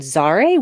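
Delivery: imitating an odd pronunciation of "Zare"; weird pronunciation. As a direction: say "Zare" as a mimicked oddity. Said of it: "pronounced his name really weird".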